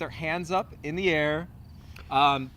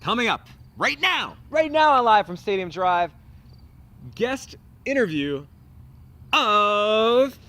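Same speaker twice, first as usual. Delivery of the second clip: show announcer; 5 semitones higher, 7 dB louder than usual. Acted. Announces the coming guest.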